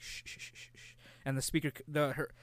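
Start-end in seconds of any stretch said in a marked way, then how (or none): 0.0-0.9 soft unvoiced shh to calm a baby; shushing. Shown as a demonstration. Soothing the baby in the game, hushed shushing. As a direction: shh it out under your breath.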